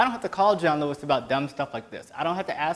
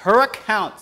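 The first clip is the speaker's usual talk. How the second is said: Tyra Banks impression; slower than usual. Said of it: "that was my Tyra Banks".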